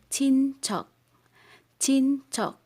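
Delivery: CHIN high and loud, then CHOK cut short on a k; final K sound. Shown as a demonstration. Teacher drilling the final consonant, K sound. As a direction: end "chok" on a stopped k. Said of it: "this is close to K sound".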